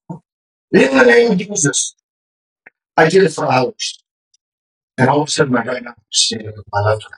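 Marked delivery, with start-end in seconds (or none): 0.1-1.9 retold prayer. Retold prayer, repeated with force.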